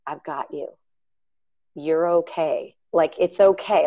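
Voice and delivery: tender, understated comfort; gentle reassurance. Retold or imitated. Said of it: "it wasn't a judgmental".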